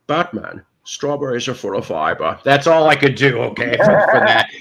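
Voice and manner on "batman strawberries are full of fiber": a hint of a masked movie villain; lightly voiced comic-book baddie, growled for fun; Bane impression. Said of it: "My Bane impression is".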